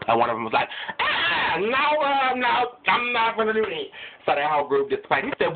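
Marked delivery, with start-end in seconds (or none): 1.0-3.9 high, frightened no; scared refusal. Acted. Angel turning down the devil, frightened and high-pitched. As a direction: back away nervously, pitch up.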